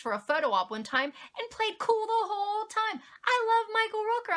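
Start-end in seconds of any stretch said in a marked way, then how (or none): 1.4-4.4 giggling while gushing; bubbling over with laughter; laughing. Real, not acted. Gushing about a celebrity.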